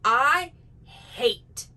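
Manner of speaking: slipping into the influencer register; mock influencer. Shown as a demonstration. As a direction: influencer voice creeping back in. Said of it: "I almost did it".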